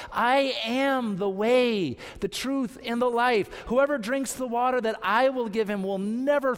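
preacher quoting Jesus emphatically; emphatic proclamation. Acted. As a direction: proclaim each promise with firm conviction. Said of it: "Jesus is so emphatic".

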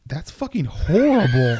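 loud, slow shocked reaction; shocked exclamation. Retold or imitated. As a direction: say it loud and appalled. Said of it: "And I'm like".

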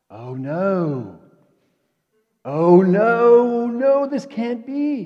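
acted disciples' terror as he comes back; dread. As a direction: horror climbing into a near cry. Disciples see Jesus returning.

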